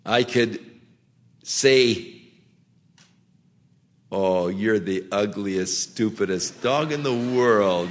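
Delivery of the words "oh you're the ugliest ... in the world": mock insult cooed kindly to a dog; affectionate tone. Shown as a demonstration. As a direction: say the insult as sweet talk, low and easy. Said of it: "tone of voice than what I said".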